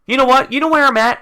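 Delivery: frustrated fan venting to viewers, worked up. Real, not acted.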